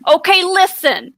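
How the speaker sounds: pitching a new drink in a mild, lightly done New York voice; New York accent. Acted. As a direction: sell it like a half-hearted New York hustler. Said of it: "In a New York accent".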